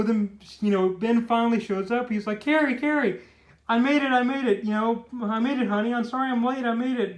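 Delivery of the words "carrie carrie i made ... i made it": higher-pitched, hurried-in imitation; mock eager apology. Ben finally shows up late for his date, mock eager apology. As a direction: plead lightly as a late boyfriend. Late boyfriend pleads on arrival.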